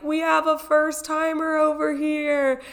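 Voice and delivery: calling it out to the store; announcing a first timer in a hammed-up shout; staff announcing. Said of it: "yell through it".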